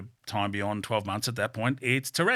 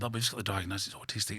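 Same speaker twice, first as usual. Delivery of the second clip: lowered voice, imitated; 2 semitones lower, 9 dB quieter, faster than usual. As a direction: imitate a discreet near-whisper, much softer. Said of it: "she said it at a lower level".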